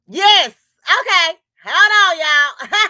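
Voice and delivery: laughing through the words; breaking into laughter. Real, not acted. Laughing mid-welcome, loses composure.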